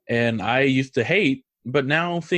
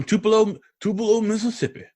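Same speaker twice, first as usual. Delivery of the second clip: imitated Mississippi singer; 8 semitones higher, faster than usual. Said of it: "Now, he did say".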